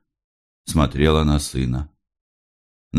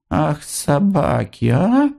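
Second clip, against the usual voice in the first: whispered curse; 11 semitones higher, slower than usual. A narrator's reading. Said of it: "шептала".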